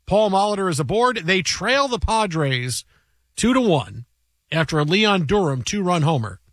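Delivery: put-on slow, measured old radio play-by-play. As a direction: call the inning like a vintage broadcast. Vintage baseball call.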